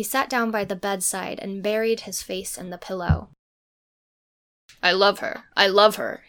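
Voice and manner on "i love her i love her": moaned. A narrator's reading. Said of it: "he moaned out".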